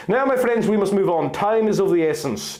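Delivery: lightly voiced leader pressing the group to go; Dalamar retorting. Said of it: "Dalamar retorted".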